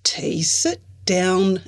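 slow, firm command; Izzy orders T to sit, firm. Acted. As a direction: tell her firmly to sit. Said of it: "Izzy ordered".

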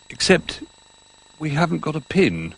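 a toy noticing a snag; Bramwell adding. Acted. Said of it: "he added".

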